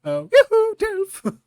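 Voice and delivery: high, sing-out hail; yoo-hoo call. Acted. Barista hailing the Dilf from the counter, high yoo-hoo. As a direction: trill it to get his attention. Playfully calling out to customer.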